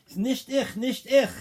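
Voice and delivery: high, loud desperate scream of innocence; screaming denial. Retold or imitated. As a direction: scream it's not me while being beaten. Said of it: "he's screaming".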